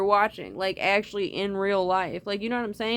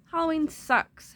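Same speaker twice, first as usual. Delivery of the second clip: playful exclamation; 7 semitones higher than usual. Shown as a demonstration. Repeated louder and higher.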